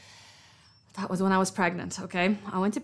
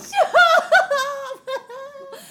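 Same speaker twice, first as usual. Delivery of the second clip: high shrieking laugh; 6 dB louder than usual. Real, not acted. Laughing at own story.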